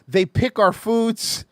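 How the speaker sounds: slow, lightly mocking patronizing voice; mocking quote. Quoting a patronizing remark about Latinos, slow mild mockery. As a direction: drag it out with mild condescension. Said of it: "I don't know why DeSantis".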